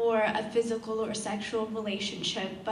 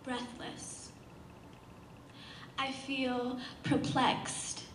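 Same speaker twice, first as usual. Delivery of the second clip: spoken-word poem. Acted. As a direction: perform it as hushed, deliberate verse. This piece that I'm gonna perform.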